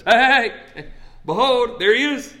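high, loud call with a laugh; excited proclaiming. Retold or imitated. John the Baptist points out Jesus to the crowd, high and loud. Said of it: "stops the sermon and goes".

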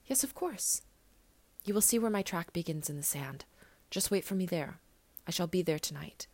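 a hint of a small boy, gentle and certain; little prince. Little prince tells the pilot to wait for him, lightly voiced young boy.

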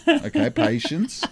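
amused fatherly patience with a laugh. Retold or imitated. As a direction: laugh while soothing the impatient kid. Dad laughing at impatient daughter.

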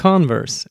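"Converse" demonstrated the English way, CON-verse; English pronunciation. Shown as a demonstration. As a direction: stress the first syllable of "Converse", as in English. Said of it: "är ju det engelska uttalet". ("Converse" på engelskt vis, betonat först)

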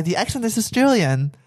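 mock Australian reply; lightly put-on Australian accent; imitated Australian accent. Woman answers the Bachelor, put-on Australian accent. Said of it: "een Australisch accent op te zetten".

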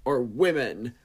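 lightly voiced gossipy talk show hosts; radio gossip hosts. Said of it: "so they were like".

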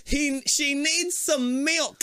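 high slow laughing line. Real, not acted. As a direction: say it while cracking up. Joking through laughter.

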